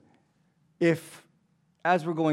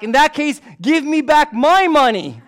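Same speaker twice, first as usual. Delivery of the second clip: very high, loud punchline shout with a laugh; mock robber yell; 12 semitones higher, 11 dB louder than usual. The robber yelling back at the MP, mock yelling. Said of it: "the robber yells back".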